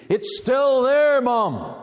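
put-on high, drawn-out call of a little boy; excited retold shout. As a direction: imitate a boy shouting to his mum. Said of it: "he came down shouting".

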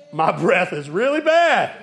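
drawn out, stunned admission; slow dawning realization. Retold or imitated. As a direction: let the truth sink in slowly. Realizing the breath is terrible.

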